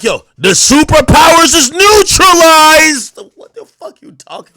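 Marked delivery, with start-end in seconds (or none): 0.0-3.2 slow, loud, high wailing mock quote; mocking a rapper's fan. Streamer parodies fans quoting lyrics, slow loud wail. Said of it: "Be like".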